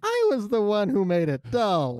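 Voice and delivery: Ralph Wiggum voice. Shown as a demonstration. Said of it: "now say it in Ralph's voice".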